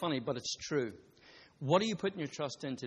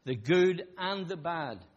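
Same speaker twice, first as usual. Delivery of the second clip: God slow and gentle; much slower than usual. Retold or imitated. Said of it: "he says".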